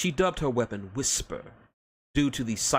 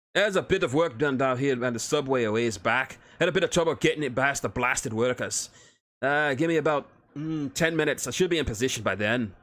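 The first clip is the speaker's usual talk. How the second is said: gruff Scottish-Irish dwarf; 4 semitones higher, 3 dB louder than usual. Acted. Dwarf reports from sewers.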